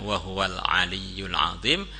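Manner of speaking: slow, low Quran recitation; measured tartil recitation. Retold or imitated. Sheikh completes the verse against the jinn, slow tartil. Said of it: "baca ayat kursi dengan tartil".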